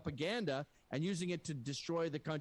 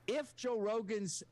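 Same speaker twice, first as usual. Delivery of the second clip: slow, higher-pitched restatement; deliberately slow; 5 semitones higher than usual. Real, not acted. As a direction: lay the premise out slowly, step by step. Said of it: "I'll say it slowly".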